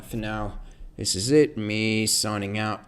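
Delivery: loud, slow British sign-off; British accent. Acted. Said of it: "speaking in a British accent".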